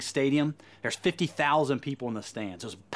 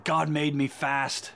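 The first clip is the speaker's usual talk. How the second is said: put-on slow, deliberate British accent on God made me fast; a preacher's slow put-on British accent; slower than usual. Preacher quoting the runner in a British accent. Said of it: "my British accent".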